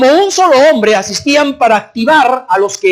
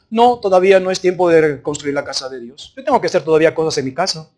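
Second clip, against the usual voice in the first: lower, softer dismissive excuse; mock unconcerned excuse-making; imitated indifference; 5 semitones lower, 4 dB quieter than usual. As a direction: brush it off half-heartedly. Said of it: "El problema de indiferencias".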